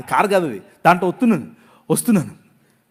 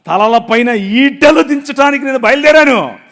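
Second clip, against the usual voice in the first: voice of God; 2 semitones higher, 8 dB louder than usual. Retold or imitated. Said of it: "ప్రభు అంటున్నాడు".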